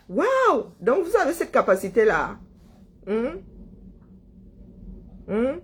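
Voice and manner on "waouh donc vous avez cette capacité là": amazed wow. Real, not acted. Amazed reaction to chat.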